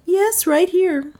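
high, slow heroine voice; high-pitched, drawn-out client's reply; voiced female client. A narrator's reading. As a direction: point it out slowly in a high voice.

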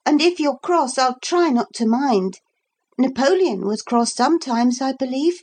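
put-on high, earnest girl's voice; young Lucy. A narrator's reading. Lucy promising Philip her help, high earnest voice.

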